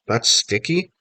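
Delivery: high disbelieving question; can't believe it; shocked. Acted. Mom stares at the gecko on her son, shocked. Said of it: "my mom gasped".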